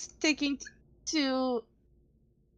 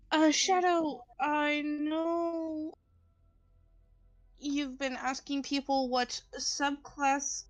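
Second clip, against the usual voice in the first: hiccups; slower than usual. Real, not acted. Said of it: "I have a really bad case of the hiccups".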